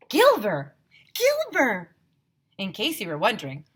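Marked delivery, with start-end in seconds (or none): 0.1-1.9 high, loud chant; shouting. A narrator's reading. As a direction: cheer the word like a crowd. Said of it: "all the teachers were shouting Gilver".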